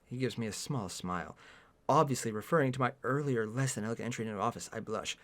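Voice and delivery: low, soft reading voice; understated first-person narration; story narration. A narrator's reading. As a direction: narrate it quietly and evenly. Reads the story aloud.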